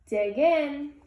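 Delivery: gentle storybook read-aloud; cozy read-aloud voice; picture book reading. A narrator's reading. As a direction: read it like bedtime for little kids.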